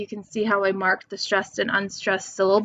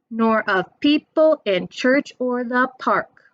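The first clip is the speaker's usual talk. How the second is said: sing-song beat on PEOPLE, CHURCH, PARK; stressed syllables marked; 3 semitones higher than usual. Shown as a demonstration. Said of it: "Yes, so E is true".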